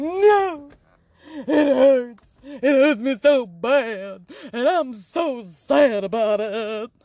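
hammed-up, high tearful wail; mock crying. Speaker pleading to Spirit that it hurts, mock crying. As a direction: whine it out slowly like a sobbing child. Acts out her own hurt complaint.

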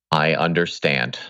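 sheepish, caught-out admission; guilty voice. Pretend. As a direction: say it like you've been caught red handed. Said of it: "that was my guilty voice".

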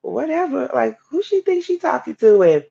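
high, sassy mock outrage at her; indignant retort. Retelling her reaction to the prophet, indignant and sassy. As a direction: scoff like who does she think she is. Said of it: "So I'm like, you know".

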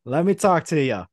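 cocky cut-in, mildly played up; L A Knight. Wrestler challenging Cena to team up, mock promo voice. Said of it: "L A Knight gets the phone".

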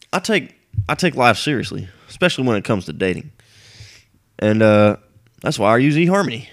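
put-on stiff, earnest commercial voice; imitating ad guy. Vlogger imitating the eHarmony actor, in a stiff earnest put-on voice. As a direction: parody a too-proper guy selling dating. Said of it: "this guy talked like this".

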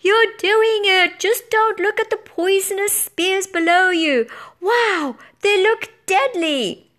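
excited high-pitched yelling; yelled. A narrator's reading. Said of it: "when Blue Rider yelled".

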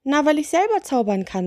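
high, cheeky little witch. Acted. Witch reveals her magic, high little voice. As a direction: explain it high, as obvious.

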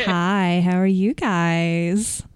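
slow, sweet phone greeting. Retold or imitated. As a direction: put on the phone voice. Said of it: "that's just my phone voice".

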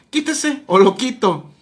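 drawn-out, ballsy retold threat; mock defiant order. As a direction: imitate a teacher laying down an ultimatum. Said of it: "así de huevos".

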